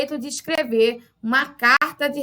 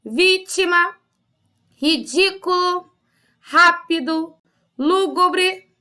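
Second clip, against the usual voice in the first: measured word by word, pausing after each; read-along word list; 2 semitones higher, slower than usual. Shown as a demonstration. Teacher leading pupils in reading a word list, deliberate and spaced. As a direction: read each word out slowly for the class to follow. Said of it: "Leiam comigo essas palavras".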